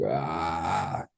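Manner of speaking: soft, held-back "ah" scream; imitated scream. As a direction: act out a scream at low volume. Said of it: "like, screaming and just like".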